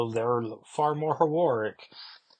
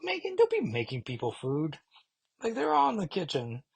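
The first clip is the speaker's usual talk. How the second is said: hushed whisper, then quick and high; a teasing sotto voce scold; whispered aside; 7 semitones higher than usual. Real, not acted. Fan whispers a tease at Megan, hushed.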